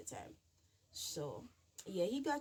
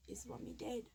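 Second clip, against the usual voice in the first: whisper; 2 semitones higher, 7 dB quieter than usual. Retold or imitated. Asking if grandmother died.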